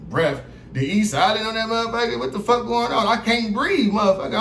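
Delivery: high, mocking disbelief; mocking the misspelled mask, high and incredulous.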